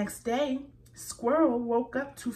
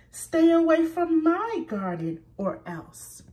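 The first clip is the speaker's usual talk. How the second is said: loud angry threat, pitched up; shouting; 8 semitones higher, 6 dB louder than usual. A narrator's reading. Squirrel yelling at Rabbit to stay away, shouting. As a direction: yell it across the garden. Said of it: "shouted Squirrel".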